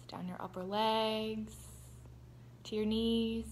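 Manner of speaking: calm, unhurried meditation voice with long pauses; guided meditation. Real, not acted. Host guiding viewers to breathe and relax, guided meditation.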